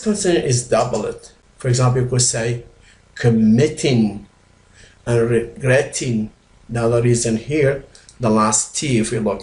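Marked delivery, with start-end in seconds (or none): 3.1-4.3 "committing" drawn out slowly, MIT stressed; stressed middle syllable. Shown as a demonstration. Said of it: "If the stress on the last syllable". 5.3-6.3 "regretting" with GRET stressed; stressed middle syllable. Shown as a demonstration. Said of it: "put stress on the last part".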